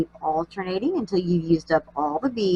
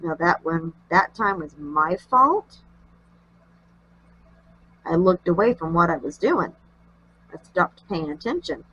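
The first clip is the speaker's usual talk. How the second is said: nasally voice; 2 semitones lower than usual. Real, not acted. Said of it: "very nasally sounding voice".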